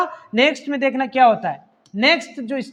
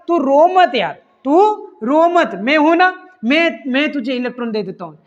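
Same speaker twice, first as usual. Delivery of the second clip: consoling water. Retold or imitated. Hammed-up friend hushing tears. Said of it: "यार जल बोलेगा".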